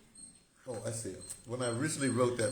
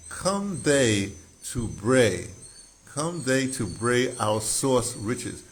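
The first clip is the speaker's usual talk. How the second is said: slow poem reading; 4 dB louder, much slower than usual. Acted. Reading the poem line aloud.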